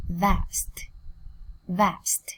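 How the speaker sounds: Vast with the final st clearly released; released final sound. Shown as a demonstration. Teacher reminding students about endings, final st of Vast released. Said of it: "Các em nhớ bật âm đuôi lên nhá".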